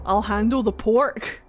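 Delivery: slow, questioning rise on "pork"; puzzled read-back. Real, not acted. Streamer reading back the misheard caption to viewers, puzzled.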